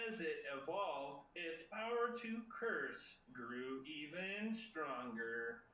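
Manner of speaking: lightly imitated Pokédex entry readout; a measured, half-successful imitation of the Pokédex, drawing out some phrases. Host reading a Pokédex entry to quiz players, mock Pokédex voice. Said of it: "That's my sad attempt at the Pokédex sound".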